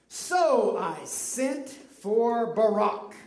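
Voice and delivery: "Barak" ending in an open "ahk"; slow line with "Barak" said "buh-RAHK"; mistaken name. Shown as a demonstration. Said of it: "Baruch, sorry".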